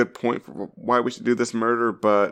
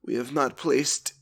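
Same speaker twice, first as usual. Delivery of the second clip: formal robotic clerk; 3 semitones higher, 3 dB quieter, slower than usual. Retold or imitated. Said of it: "And they're like".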